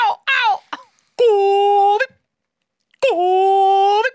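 high, loud imitated bird calls; linnun ääntely. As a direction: hoot out piercing bird cries. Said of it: "tsirputtaakin aika monenlaisia juttuja". (matkittu kimeä linnun huuto)

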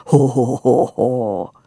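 acted ho-ho laugh, loud at the start; a narrator's hammed-up belly laugh; guffaw. A narrator's reading. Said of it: "muuttuen käsiä polviin pieksäväksi hohotukseksi". (näytelty hohotus)

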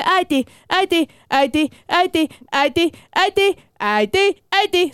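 high, whiny calling of mother, again and again; nagging child. Retold or imitated. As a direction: call mum like a pestering toddler. (korkea, vinkuva lapsen huutelu äidille)

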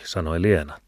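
ordinary delivery

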